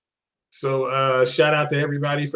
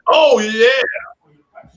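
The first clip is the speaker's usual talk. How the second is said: excited; 7 semitones higher than usual. Real, not acted. Greeting a newly joined guest.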